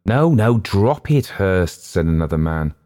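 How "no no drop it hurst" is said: urgent protest. A narrator's reading. Man pleads to stop.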